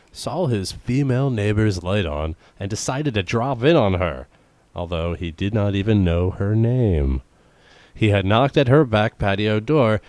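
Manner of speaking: lightly formal news-reading voice. Acted. Podcaster reads odd news to co-host, news read.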